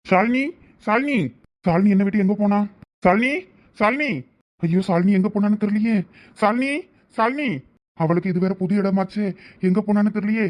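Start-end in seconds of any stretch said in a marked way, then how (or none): 0.1-1.2 anxious high calls, loud and rising; calling out. Acted. Searching for missing wife. 3.0-4.1 anxious high calls, loud and rising; calling out. Acted. Searching for missing wife. 6.4-7.5 calling out. Acted. Searching for missing wife.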